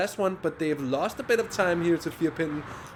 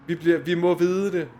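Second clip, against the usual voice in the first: fake Swedish. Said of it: "Yeah, my fake Swedish".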